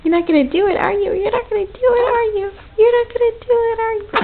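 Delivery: playful teasing. Real, not acted. Teasing baby, rising pitch.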